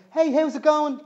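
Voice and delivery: high, bright casual hello; friendly greeting howl. A narrator's reading. A banshee's howl coming out as a cheery hello. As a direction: chirp it like a friendly hi. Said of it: "Her howl was more of a friendly".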